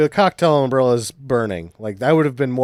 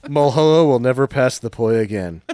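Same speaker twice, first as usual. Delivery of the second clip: laughing. Real, not acted. Joke through laughter.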